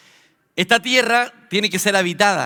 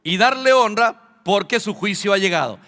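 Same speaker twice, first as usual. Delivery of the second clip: angel's proclamation; 3 semitones higher, 3 dB louder than usual. Acted. Angel announcing judgment to the people on earth, mildly proclaimed. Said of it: "el ángel va a decir".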